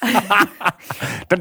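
ordinary delivery

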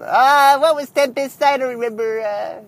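lightly voiced creaky old man; a hint of a forgetful grandpa. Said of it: "that was my old man voice".

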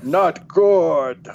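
gruff ogre verdict. Retold or imitated. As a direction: grunt it out like an ogre. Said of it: "That's your ogre impression".

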